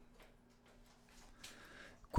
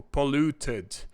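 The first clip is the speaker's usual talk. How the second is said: each word drawn out slowly for the class; slow, careful classroom delivery; slow model words; much slower than usual. Shown as a demonstration. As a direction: spell them out slowly like a teacher. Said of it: "por exemplo".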